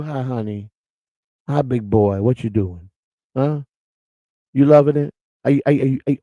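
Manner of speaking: lightly put-on seductive purr, teasing; mock sultry talk. Mocking a flirty viewer in chat, hammed-up sultry come-on. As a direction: play the come-on voice half in jest. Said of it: "you want me to talk like you?".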